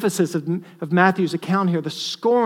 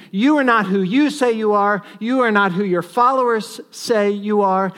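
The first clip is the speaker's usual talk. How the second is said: louder, sharper mock contempt; scornful taunt; 4 semitones higher, 4 dB louder than usual. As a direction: throw the scorn at him harder. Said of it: "an attack of scorn".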